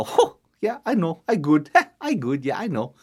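soft, smug self-praise with a chuckle; smug boasting. Acted. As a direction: brag to yourself, pleased. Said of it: "he's so arrogant".

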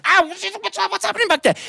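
very high pained yelp; a goat hurt and confused; high alarmed ow. Acted. Goat bitten again.

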